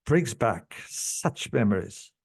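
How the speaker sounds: low and choked up with real emotion; emotional. Real, not acted. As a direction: voice dropping low, moved by the memory. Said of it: "I'm getting emotional".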